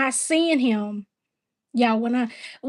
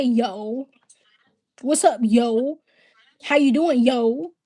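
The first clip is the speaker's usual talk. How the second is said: fake New York accent; slower than usual. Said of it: "You got the fakest fucking up top accent".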